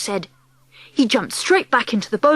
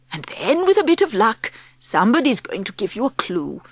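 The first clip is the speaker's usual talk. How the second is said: plotting grandmother. Acted. Grandmother instructing the child to hide, a touch hushed.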